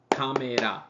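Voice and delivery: "Camera" said as ka-me-ra with even beats; Japanese pronunciation. Shown as a demonstration. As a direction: say "Camera" the Japanese way, every mora equal. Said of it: "all the exact same beat".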